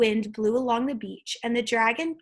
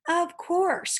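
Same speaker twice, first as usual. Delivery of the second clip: put-on croaking old gull; 8 semitones higher than usual. A narrator's reading. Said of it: "croaked the old, very old gull".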